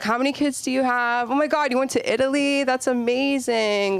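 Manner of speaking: high, gushing small-talk voice; mock gushing. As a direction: fake delight at a stranger's trip. Fake enthusiastic small talk.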